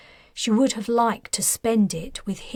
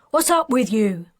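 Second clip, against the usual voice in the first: louder, irritated officer bark; 4 dB louder than usual. Acted. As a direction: bark it at a subordinate. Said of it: "barked the officer".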